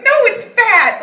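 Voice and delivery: high loud indignant retort; mock yell. Answering her friend Chris about her belly, high mock yell. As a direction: shout back the truth, half laughing.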